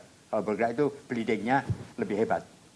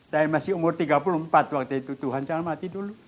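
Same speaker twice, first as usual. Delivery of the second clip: higher-pitched pleading to God; memohon sambil menangis; 5 semitones higher, 4 dB louder than usual. Retold or imitated. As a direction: plead earnestly, retelling a tearful prayer. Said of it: "Saya nangis". (doa memohon dengan nada tinggi)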